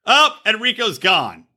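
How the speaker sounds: high-pitched comic incredulity; mock disbelief. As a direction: play up being scandalised, pitch climbing. Co-host drops out, mock outrage.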